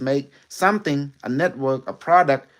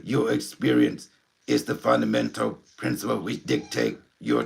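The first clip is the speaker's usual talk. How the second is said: Unimetric One. Acted. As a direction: speak like an alien intelligence through a medium. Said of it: "you wanna meet, uh, Unimetric One?".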